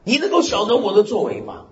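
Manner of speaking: lofty voice of God questioning Job; God speaking. Retold or imitated. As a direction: proclaim it as the Almighty. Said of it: "神说".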